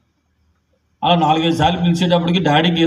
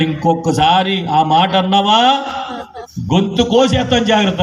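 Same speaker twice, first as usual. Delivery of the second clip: mock angry threat; 4 semitones higher than usual. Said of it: "ఎంత కోపం వచ్చేసింది".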